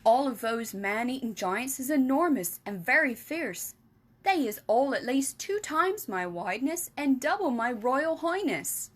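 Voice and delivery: lightly voiced friendly giant explaining; BFG voice. Giant explaining to Sophie, lightly voiced.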